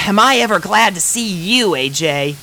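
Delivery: high, loud, relieved pony; relieved Rainbow Dash. A narrator's reading. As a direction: glad to see her friend at last. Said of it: "sighing with relief".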